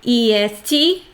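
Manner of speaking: ordinary talk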